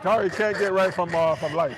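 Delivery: teasing through laughter; laughing tease. Real, not acted. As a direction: laugh while ribbing her.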